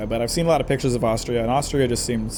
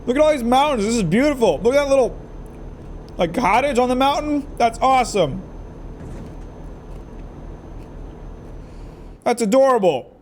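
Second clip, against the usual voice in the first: excited; 8 semitones higher than usual. Real, not acted. Excited at mountain scenery.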